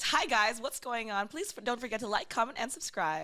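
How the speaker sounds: loud bubbly YouTuber greeting; energetic stream intro. Shown as a demonstration. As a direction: hype up your subscribers. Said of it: "this is my YouTube voice".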